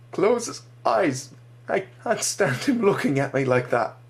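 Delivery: high, slow plea fighting back sobs; holding back sobs. Acted. Boy begging the soldier to close the eyes, holding back sobs. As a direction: barely keep from crying. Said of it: "trying to keep himself from sobbing openly".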